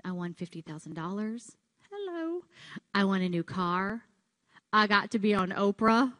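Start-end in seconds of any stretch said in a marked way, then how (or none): 1.9-2.4 ironic hello. Real, not acted. Ironic exclamation.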